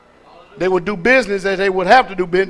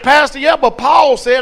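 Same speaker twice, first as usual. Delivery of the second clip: higher, a hint of an objecting churchgoer; objecting brother; 5 semitones higher, 4 dB louder than usual. Brother objecting to the pastor, lightly voiced protest. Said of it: "One person came up to me and said".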